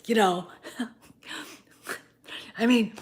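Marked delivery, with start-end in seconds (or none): 0.8-3.0 laughing as she talks; a real laugh breaking into the line; laughing at her own comparison. Real, not acted.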